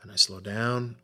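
easing the pace to demonstrate; slowing down. Shown as a demonstration. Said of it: "It varies in its pace".

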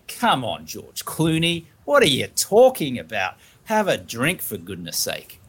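lightly hammed-up disbelief, pitch swooping up; acted cajoling that drops away at the end; mock exasperated urging. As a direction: pester a guest in mock exasperation. Imagined host pressuring guest to drink.

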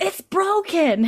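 put-on high, slow little-child wail; Jemmy. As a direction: draw it out like an upset small child. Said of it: "he's like".

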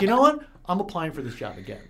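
a sudden loud, high burst of resolve; excited self-quote. Retold or imitated. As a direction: fire yourself up and declare it. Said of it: "I'm like".

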